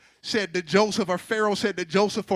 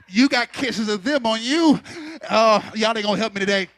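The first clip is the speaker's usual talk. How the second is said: preaching; 4 dB louder than usual. Acted. Preacher builds again.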